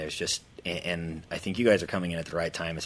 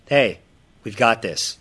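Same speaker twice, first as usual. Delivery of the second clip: excited pitch; 5 semitones higher, 10 dB louder, slower than usual. Retold or imitated. Calling a client enthusiastically.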